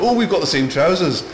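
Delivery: high, loud gushing fanboy line; mock Rick Mayall squeal; Rick Mayall impression. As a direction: blurt it like a starstruck student. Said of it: "don't be like Rick Mayall when he says".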